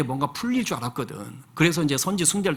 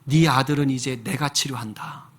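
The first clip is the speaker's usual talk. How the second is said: lower, hushed voice of the Spirit; slow, tender inner voice; Spirit speaking; 3 semitones lower, slower than usual. Retold or imitated. The Spirit calling the father to a new mission, hushed and slow. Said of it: "성령께서 그분 마음 가운데 이렇게 말씀을 하시더래요".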